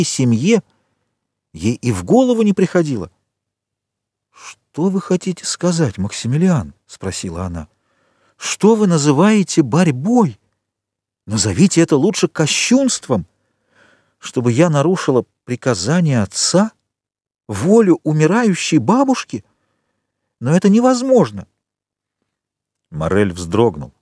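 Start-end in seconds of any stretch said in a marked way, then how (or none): 4.3-6.7 higher, slow, startled question; lightly voiced frightened girl; startled young woman. Valentine, startled. 8.4-21.5 lightly voiced upset girl; distressed young woman. Valentine refuses, distressed.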